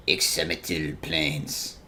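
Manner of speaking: "Ixamitil" sounded out slowly, syllable by syllable; unsure pronunciation. Shown as a demonstration. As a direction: stumble slowly through "Ixamitil Plains". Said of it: "I can't even pronounce that".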